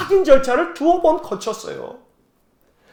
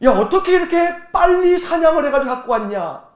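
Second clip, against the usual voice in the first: lightly acted father's challenge, raised pitch; suspicious father; 6 semitones higher, 3 dB louder than usual. Father challenging the son back too soon from hunting, suspicious. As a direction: question your son in mild disbelief. 아버지가 의심하며 따져 묻는 장면.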